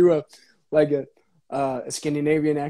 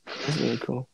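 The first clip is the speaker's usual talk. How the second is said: quiet sarcastic that's really cool; 2 semitones lower, 8 dB quieter than usual. Real, not acted. Friend answering the lip trick sarcastically. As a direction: say that's really cool flatly, not meaning it. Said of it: "That is the most sarcastic thing".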